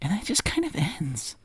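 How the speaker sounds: soft, whispered letdown; anticlimactic whisper. Real, not acted. Storyteller admits a weak ending to friend, whispered letdown. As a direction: let it fizzle out in a whisper.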